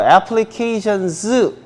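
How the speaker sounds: applications, drawn out with the final s sounded separately; plural ending stressed. Shown as a demonstration. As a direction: spell out the plural "s" at the end of "applications". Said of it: "복수가 있기 때문에요". (applications의 복수형 s를 또렷이 늘여서)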